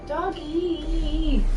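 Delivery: high, loud call to a dog; delighted cry for the dog; excited doggy call. Real, not acted. Calling to neighbour's dog.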